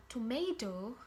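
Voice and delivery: tomato with the second T as a D; American-style tomato, D-like second T; American pronunciation. Shown as a demonstration. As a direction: say tomato as "tuh-may-doh". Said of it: "It turns into combination of T".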